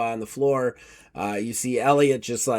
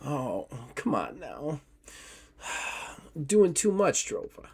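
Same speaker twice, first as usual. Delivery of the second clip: soft, weary scolding, much quieter; witchy woman scolding; 8 dB quieter than usual. Acted. Witchy woman chiding the fallen Drova, soft weary sigh. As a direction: sigh and chide him gently. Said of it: "And she's like".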